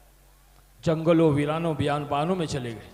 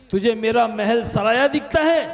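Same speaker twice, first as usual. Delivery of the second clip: angry king; 5 semitones higher, 4 dB louder than usual. Acted. First take of challenge.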